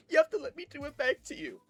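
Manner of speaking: put-on very high girl voice; demanding girl. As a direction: imitate a schoolgirl insisting on payback. Girl demands payback in retelling.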